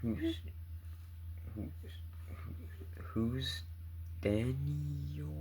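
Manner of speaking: stammering confused question; who on earth is Daniel; baffled. Real, not acted.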